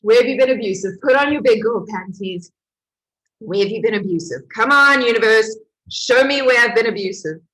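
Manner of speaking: loud, fast self-challenge; self pep talk. Retold or imitated. Pushing herself in her room to face the truth, loud. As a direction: rouse yourself to face it. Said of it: "And I was like".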